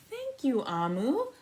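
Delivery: put-on high child's thanks; little boy. Little boy thanking Amu, high. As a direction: squeak it out like a small boy. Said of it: "the little boy said".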